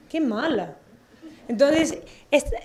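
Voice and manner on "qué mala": imitated little Mexico City girl's accent; mock kindergartner accent. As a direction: lightly mimic a small girl's accent, stretching "mala". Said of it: "porque además tiene ese acento así".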